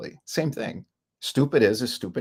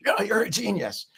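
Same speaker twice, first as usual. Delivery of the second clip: high, lightly voiced flattering mom; mock doting mother; 9 semitones higher than usual. Mother praising her idiot son, high and doting.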